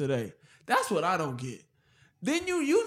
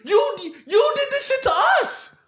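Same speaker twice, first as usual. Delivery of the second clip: high-pitched, heated outburst; emotional rant; 6 semitones higher than usual. Real, not acted. Demanding why his people got no reparations, emotional rant. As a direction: plead and protest, tripping over restarts. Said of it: "full, you know, emotional build up".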